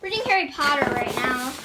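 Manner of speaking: panting after the stairs; out of breath. Real, not acted. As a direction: talk while short of breath. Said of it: "I'm out of breath".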